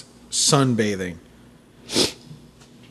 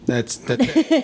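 deadpan; 6 semitones higher, slower than usual. Pretend. Mocking the flat story ending.

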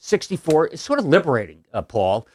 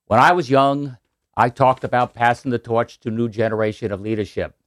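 Kennedy Boston accent impression. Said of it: "You do the accent well".

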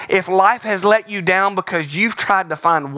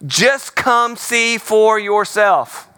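slow, warm inviting line; slowly drawn out invitation; gentle invitation; 4 semitones higher, much slower than usual. Acted. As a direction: coax a doubting friend. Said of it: "Look at what he says".

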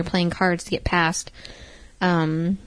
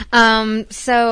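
just swallowed a sip of beer; talking right after a drink; while drinking beer; 3 semitones higher, 3 dB louder than usual. Real, not acted. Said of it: "I'm drinking my beer".

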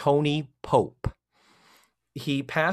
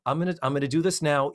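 fast, hurried repeat; quick aside; faster than usual. Real, not acted.

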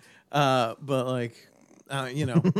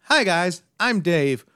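high, loud, whiny emo frontman, dragging out the end slowly; mocking an emo singer who asks the crowd where it went; 7 semitones higher, 8 dB louder, much slower than usual. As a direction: overdo a sad emo band greeting. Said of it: "emo bands that are like".

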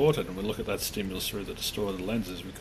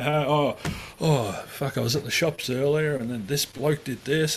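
higher, louder complaining rant; mock whinging; 4 semitones higher, 4 dB louder than usual. Friend moaning about a bloke at the shops: higher whinge. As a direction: whine like it's a pity party. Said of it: "send out all the invites and say".

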